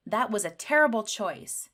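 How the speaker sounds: a touch of anger; angry. Shown as a demonstration. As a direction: scold it with an exclamation mark. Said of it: "when you're angry".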